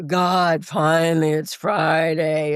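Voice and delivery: mock relief.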